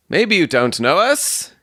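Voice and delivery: high, drawn-out suitor's voice; haughty young suitor. Acted. Stangerson introducing himself to Ferrier, high-pitched and self-important. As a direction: pitch it up and stretch it out.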